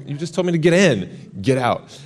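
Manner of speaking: you just told me the opposite, protest it; incredulous protest. Retold or imitated. Driver suddenly orders him off.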